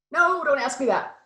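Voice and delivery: a mother silently freaking out; inner panic. Retold or imitated. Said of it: "That was just me on the outside".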